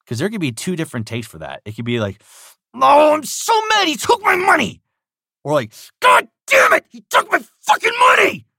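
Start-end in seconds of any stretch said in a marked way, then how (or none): 2.7-4.8 high, loud whiny shout; weak anger. Shown as a demonstration. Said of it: "Which one sounds more believable?". 6.0-8.5 high, loud furious shout; real anger. Shown as a demonstration. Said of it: "it actually sounds like there's anger".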